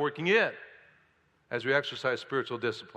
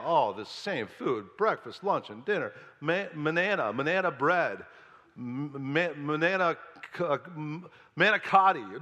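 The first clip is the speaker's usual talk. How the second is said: whiny complaint. Pretend. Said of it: "They're complaining about the manna".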